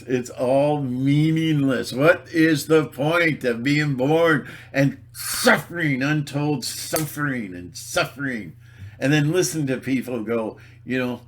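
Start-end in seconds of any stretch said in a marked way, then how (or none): 0.0-8.5 slow, drawn-out theatrical lament; hammed-up existential anguish; mock despair. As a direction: wail lightly at the pointlessness.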